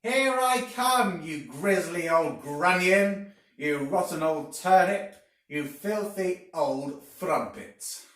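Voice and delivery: very high, very loud, slow hag screech; screeching at the top of her voice. A narrator's reading. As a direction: scream down at him from the sky like a furious witch. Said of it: "called out at the top of her voice".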